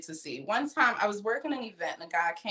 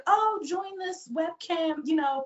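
mock sales pitch; 4 semitones higher than usual. Ambassador pitching a webcam site to girls, mock salesy. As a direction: sell the dream like a brand ambassador. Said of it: "you selling the dream".

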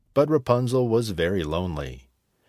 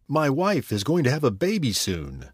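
begging; 4 semitones higher than usual. Acted. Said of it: "begged the young man".

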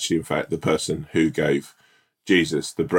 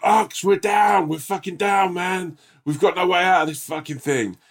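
much higher, hammed-up panicky soldier; mock army soldier voice; 13 semitones higher than usual. To his mate under fire, a high mock soldier panic. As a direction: play yourself as a squeaky soldier pinned down. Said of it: "Is that how you talk?".

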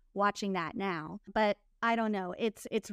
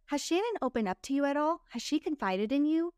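probing questions; 5 semitones higher than usual. Retold or imitated. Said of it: "You know".

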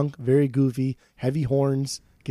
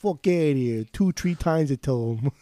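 lightly voiced Italian-American gangster; a hint of Italian mob-boss accent; Italian mobster accent. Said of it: "John Gotti over here".

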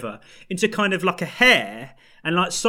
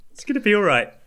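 whisper; 5 semitones higher, faster than usual. Real, not acted. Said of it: "Compose yourself".

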